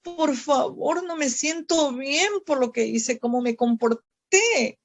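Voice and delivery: choking up, voice rising and softening as she pleads; tearful prayer. Retold or imitated. Preacher reenacting her tearful prayer to the Lord, crying. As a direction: pray through tears, begging to be held. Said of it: "y me pongo a llorar".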